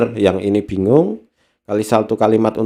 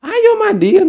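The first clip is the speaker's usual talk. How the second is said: sharp high snap, much higher; annoyed mother; 4 dB louder than usual. Retold or imitated. Irritated mother snapping at silent child, high sharp order. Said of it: "ibunya kan jengkel".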